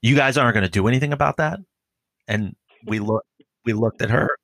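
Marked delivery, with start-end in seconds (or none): 0.0-1.6 fast, higher, indignant demand; a shopper scolding the cops, quick and offended; indignant complaint. Retold or imitated.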